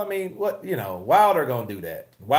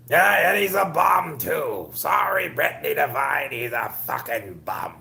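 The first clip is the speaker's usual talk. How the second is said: mock Wilder; 2 semitones higher than usual. Streamer imitating Wilder trashing Fury, slow shouting. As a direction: yell it like a trash-talking fighter. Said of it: "Wilder said that shit".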